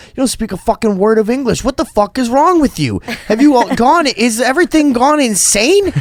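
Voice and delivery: high, loud mock meltdown at a clerk; retold screaming. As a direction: shriek it like a man losing it. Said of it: "started screaming at this guy".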